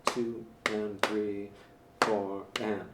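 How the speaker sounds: slow count-in. Shown as a demonstration. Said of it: "just do it for four beats".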